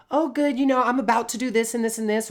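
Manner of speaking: lightly played breezy chatter; chirpy small talk. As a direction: rattle it off like a cheery acquaintance.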